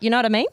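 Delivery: "you know what I mean" slurred into one word; words run together. Shown as a demonstration. Australian showing how bogans talk, "you know what I mean" run together. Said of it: "they run that whole four words or whatever".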